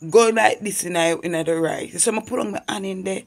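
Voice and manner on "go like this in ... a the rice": dream voice's command. Retold or imitated. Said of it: "a voice said to me".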